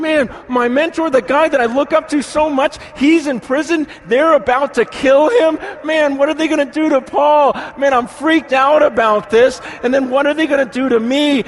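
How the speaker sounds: a scared disciple blurting out his panic; panicked Timothy. Retold or imitated. Voicing frightened Timothy about Paul.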